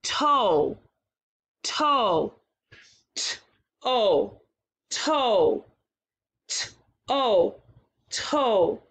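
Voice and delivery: t, o, then blend toe; segmenting sounds. Shown as a demonstration. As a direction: split the sounds then join them. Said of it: "This one is a two sound word".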